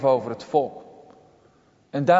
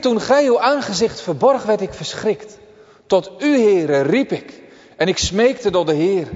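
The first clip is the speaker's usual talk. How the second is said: pleading prayer; 3 semitones higher, 4 dB louder than usual. Retold or imitated. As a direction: cry out to the Lord in distress. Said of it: "Hij bidt". (smekend gebed van David, hoger en luider)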